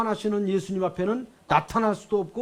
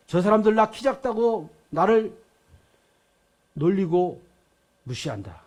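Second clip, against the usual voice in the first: bitter, rising outburst at the crowd; aggrieved complaint; 4 dB louder than usual. Acted. Zacchaeus complains about the people who mock him, bitter. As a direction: rant at those who despise you. Zacchaeus voices his grievances.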